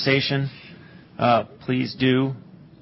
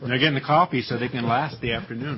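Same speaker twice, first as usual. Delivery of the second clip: laughing. Real, not acted. Joking about dessert, laughter.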